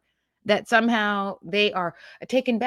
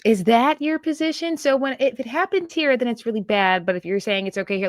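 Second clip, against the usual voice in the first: high-pitched mocking imitation of a pointed question; condescending; 5 semitones higher than usual. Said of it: "the condescension is annoying".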